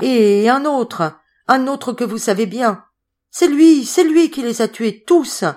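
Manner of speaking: rising to a high, loud cry; frantic pleading. Acted. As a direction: beg on her knees, ending in a scream. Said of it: "suppliait Madeleine et Patrice de fuir". (supplication éperdue qui monte jusqu'au cri)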